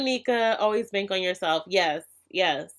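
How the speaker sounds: usual speaking voice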